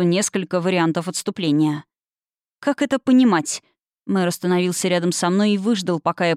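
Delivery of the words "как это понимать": menacing. Acted. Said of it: "чтобы грозно продолжить".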